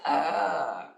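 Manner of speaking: the therapist asks for only the "ah"; short lament. Shown as a demonstration. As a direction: give just the small "ah" lament. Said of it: "Haz solo eso".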